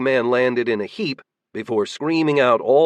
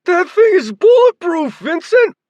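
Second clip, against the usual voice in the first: very high, loud alarmed shout; guard yelling to his leader; 9 dB louder than usual. A narrator's reading. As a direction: yell the warning across the room. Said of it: "He shouted".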